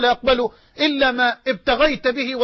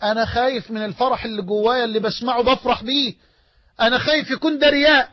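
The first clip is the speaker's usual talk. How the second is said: worried believer; 3 semitones higher than usual. Retold or imitated. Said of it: "تقول".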